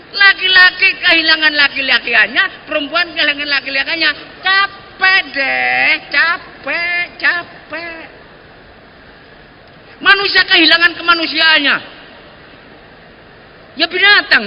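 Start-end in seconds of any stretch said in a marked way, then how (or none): 4.4-8.0 mock weary sigh. Mocking effeminate sigh of weariness.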